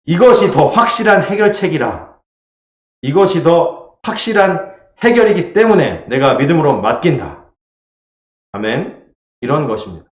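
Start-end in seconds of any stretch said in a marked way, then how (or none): 0.0-7.5 firm, higher-pitched declaration of faith; emphatic statement of trust; confident trust. Acted. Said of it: "하나님께 맡긴다는 것은".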